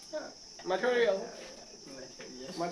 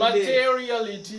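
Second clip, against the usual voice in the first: मटेरियलिटी said slowly, syllable by syllable, a bit louder; slow and careful; 5 dB louder, slower than usual. Shown as a demonstration. Teacher showing students the slow careful way. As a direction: model it slowly so the class can follow. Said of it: "एकदम आराम से धीरे धीरे".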